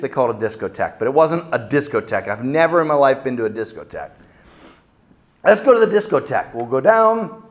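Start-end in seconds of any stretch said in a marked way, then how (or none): 5.4-7.4 higher and fast, casual; friend's breezy invite. Retold or imitated. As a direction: toss it off like an eager host. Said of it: "friend's invitation".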